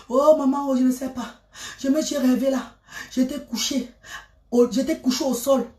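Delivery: soft, moaning worried mother; lightly voiced mother, moaning in fear; frightened mother. Mother on the phone at dawn, softly moaning in fear. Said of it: "Elle dit que".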